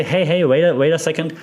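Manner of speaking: a listener protesting, hammed up a little; mock objection. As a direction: play the sceptical listener who thinks you're old-fashioned. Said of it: "And now you might say".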